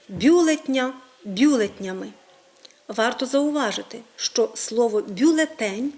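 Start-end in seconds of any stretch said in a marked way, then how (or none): 0.1-2.1 бюлетня and бюлетнями stressed on БЮ; stress on first syllable. Shown as a demonstration. Teacher demonstrating common mistakes, stress on the first syllable. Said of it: "Ми досить часто з вами чуємо". 5.0-5.9 бюлетень with the beat on ТЕНЬ; stress on last syllable. Shown as a demonstration. Teacher giving the correct stress, бюлеТЕНЬ. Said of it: "має наголос тільки на останньому складі".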